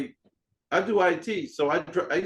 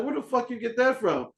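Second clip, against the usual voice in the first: higher, startled friend's voice; amazed question; 8 semitones higher than usual. Retold or imitated. Friend asking where he got the rare record, amazed. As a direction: pitch it up like you can't believe it.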